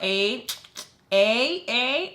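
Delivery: imitated bird-like calls. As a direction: repeat it like a squawking bird. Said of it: "like a friggin' bird".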